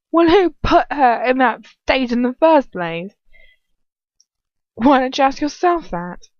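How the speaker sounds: furious English villainess, high and loud; Bellatrix. A narrator's reading. Questioning Lucius about the captive, furious. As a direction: demand it with high, loud indignation. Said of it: "Bellatrix asks furiously".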